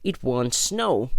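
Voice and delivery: high-pitched, chirpy storybook voice; breezy, upbeat Rabbit; cheerful. A narrator's reading. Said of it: "said Rabbit cheerfully".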